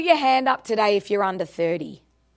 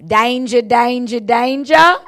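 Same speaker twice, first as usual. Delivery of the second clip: louder each time, hammed-up warning; playful Aussie call; 6 dB louder than usual. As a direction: ham it up for the crowd. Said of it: "Is that what you want?".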